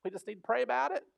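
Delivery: the do-nothing prayer person by the burning church, hammed-up piety; mock pious prayer type. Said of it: "and they just go".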